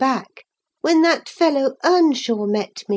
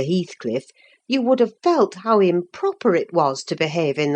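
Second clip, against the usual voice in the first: lower, measured housekeeper scolding; lower, firm but kind nursemaid; reproving old nurse; 6 semitones lower than usual. Acted. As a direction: gently reprove the girl. Ellen scolds Catherine.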